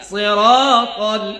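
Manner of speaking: সিরাতাল with a one-beat "raa", straight on to তাল; measured stretch. Shown as a demonstration. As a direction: model সিরাতাল slowly and evenly. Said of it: "এক আলিফের টান পরিমাণটা".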